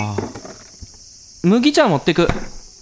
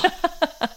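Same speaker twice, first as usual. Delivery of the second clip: ticklish giggle; 9 semitones higher, 6 dB quieter than usual. Acted. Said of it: "変な声出すなよ".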